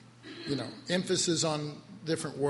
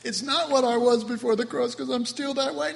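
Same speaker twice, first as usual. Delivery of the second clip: higher, insistent objecting voice; protesting believer; 6 semitones higher than usual. Acted. Preacher voices a listener's objection to the cross, protesting. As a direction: argue back in a higher, pleading tone. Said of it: "You say".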